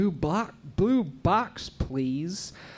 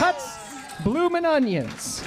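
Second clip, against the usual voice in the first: excited announcement; 10 semitones higher than usual. Real, not acted. Host announces correct answer.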